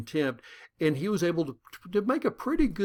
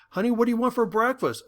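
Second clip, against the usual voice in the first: wife asking; 7 semitones higher, faster than usual. Retold or imitated. Wife voiced higher.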